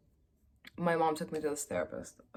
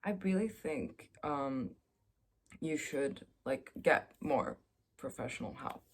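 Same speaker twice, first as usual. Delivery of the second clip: soft, hesitant therapist; 3 semitones lower, 8 dB quieter than usual. Retold or imitated. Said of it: "by saying".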